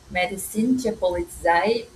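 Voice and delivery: makeshift German with a Brazilian Portuguese accent; amateur German pronunciation; macarronic German. Real, not acted. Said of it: "alemão macarrônico".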